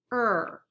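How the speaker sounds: er as one r-coloured vowel; er vowel sound. Shown as a demonstration. Teacher giving an example of a vowel sound, isolated er. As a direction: sound out er on its own, as in fern. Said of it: "the sound er can mix".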